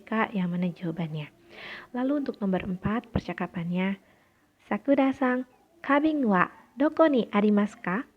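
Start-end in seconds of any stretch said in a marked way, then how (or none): 4.7-8.1 higher, louder model question; raised classroom reading voice; projected dialogue question. Shown as a demonstration.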